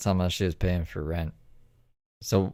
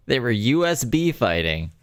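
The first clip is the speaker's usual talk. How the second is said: laughing mock quote, pitched higher; amused mockery; 4 semitones higher, 3 dB louder than usual. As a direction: repeat it mockingly through a laugh. Mockingly repeats the clip, laughing.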